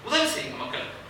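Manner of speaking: soft, breathy half-whisper plea; hushed urging. Real, not acted. Speaker urging listeners to help others, in a hushed whisper. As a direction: drop to a near whisper to draw them in.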